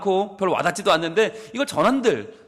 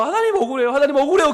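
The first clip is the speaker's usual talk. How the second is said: louder, higher pleading cry to God; aggrieved crying prayer; 8 semitones higher, 5 dB louder, faster than usual. Retold or imitated. Preacher voicing a wronged man praying, rising aggrieved plea. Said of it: "너무너무 억울하고 서러워서 기도를 하는데".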